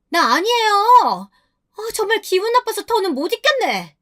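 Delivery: high-pitched outraged friend; acted indignant outburst, high and scolding; indignant shrieking. A narrator's reading. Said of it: "발끈해서 소리를 빽 질렀어요".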